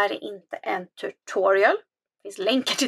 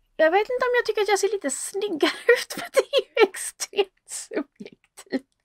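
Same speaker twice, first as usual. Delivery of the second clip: talking through laughter, very high pitch; 10 semitones higher than usual. Showing viewers a new camera angle in OBS, said while laughing. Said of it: "*Sägs skrattandes*".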